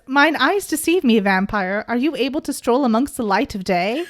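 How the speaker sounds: lightly voiced archaic gentleman, mock formal; a hint of a stately old fellow; old-timey gentleman. Podcaster voicing Jace in old dude style, lightly mock formal. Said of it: "we're gonna do this in old dude".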